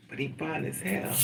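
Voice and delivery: ordinary talk, nothing marked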